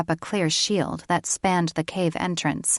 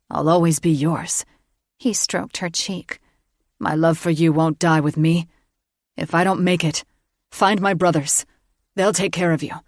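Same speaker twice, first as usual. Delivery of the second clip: tender male farewell; 5 dB louder than usual. A narrator's reading.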